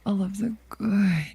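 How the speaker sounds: slow, breathy seductive whisper. Acted. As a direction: whisper it like a sultry vampire. Seductive whisper greeting to chat.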